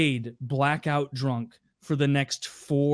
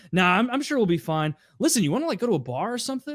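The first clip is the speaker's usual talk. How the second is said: higher, coaxing bro voice; imitating Andy; 6 semitones higher, faster than usual. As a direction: brush off work, push for the bar. Andy pushing for a bar.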